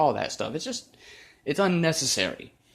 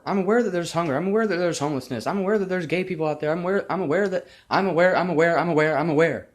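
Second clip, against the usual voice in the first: exasperated; 5 semitones higher than usual. Real, not acted. Exasperated rant, repeating I'm aware.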